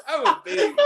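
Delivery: put-on high whiny baby voice; baby whine. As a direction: squeal it like a big baby. Self-mocking baby catchphrase.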